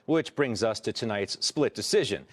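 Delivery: measured anchor introduction; news read. Acted. Anchor introduces tonight's split decision, news read.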